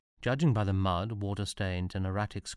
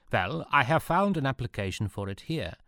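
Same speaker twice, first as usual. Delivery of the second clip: proudly; 4 semitones higher, 3 dB louder than usual. Acted. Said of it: "said the Prussian officer proudly".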